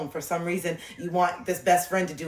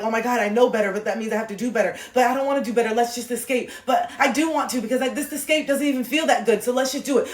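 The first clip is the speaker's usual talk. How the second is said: lightly acted inner argument, pitched up; torn inner voice; 4 semitones higher than usual. Coach voicing the listener's conflicted awareness, torn inner voice. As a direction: voice a mind going back and forth with itself. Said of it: "The awareness is like".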